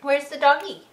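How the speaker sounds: bright, loud sing-song voice; excited baby talk. Acted. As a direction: cheer the toddler on to look. Mom cheering toddler to find dog.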